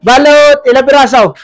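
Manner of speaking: vendor's call. Real, not acted. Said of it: "sa pagsigaw ko".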